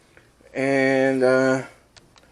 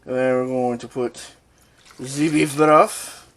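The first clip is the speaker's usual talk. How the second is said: mock-French accent, slowing and louder; bad French accent; 5 dB louder than usual. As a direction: build up the fake French. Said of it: "a really bad French impression".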